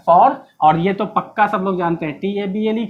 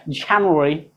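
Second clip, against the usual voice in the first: जनवरी in American style, "JAN-yu-eri", lower; American accent; 5 semitones lower, much slower than usual. Shown as a demonstration. Teacher contrasting styles, American-accented January. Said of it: "American में जाएंगे तो".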